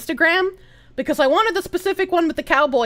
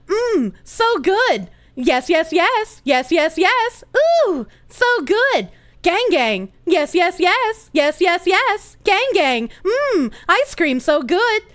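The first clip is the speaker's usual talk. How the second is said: a hint of robotic NPC voice; NPC monotone; slower than usual. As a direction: try a flat NPC streamer voice. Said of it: "I put too much inflection in my voice".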